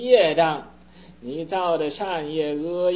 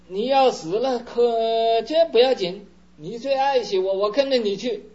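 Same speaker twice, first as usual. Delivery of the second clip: higher and louder, bright and keen; eager youngest son; 7 semitones higher, 6 dB louder than usual. Acted. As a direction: jump in eagerly to please. Clever youngest son agrees eagerly.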